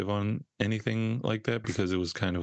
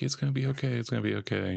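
mock reflexive reassurance; 5 semitones higher, faster than usual. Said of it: "a habit of me going like".

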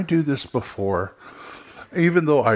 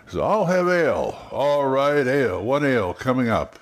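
perfunctory; 3 semitones higher than usual. Shown as a demonstration. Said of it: "it feels so kind of perfunctory".

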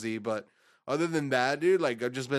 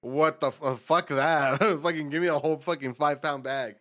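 laughing mock outrage; 4 dB louder than usual. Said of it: "I was like".

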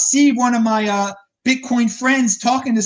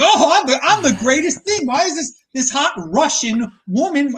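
cocky guy's thought; 5 semitones higher than usual. Retold or imitated. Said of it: "And you just think".

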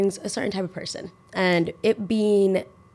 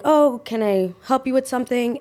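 higher, put-on customer-service voice; server voice; 6 semitones higher than usual. Server offering help to two customers, put-on polite voice.

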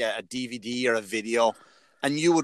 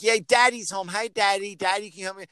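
little daughter; 6 semitones higher than usual. Retold or imitated. Imitating his young daughter greeting him at the door, chirpy and high. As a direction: play a seven-year-old thrilled daddy's home. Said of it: "she'd like".

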